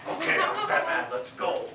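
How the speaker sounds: high, excited make-believe hero; playful hero call with a laugh; Batman. Pretend. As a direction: kid rallying a friend in play. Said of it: "you play just make-believe".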